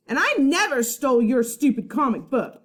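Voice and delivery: loud, high shout back; angry retort. Acted. Boy shouting back as he stomps off, loud. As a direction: turn and fire it back. Charlie yelling while stomping off.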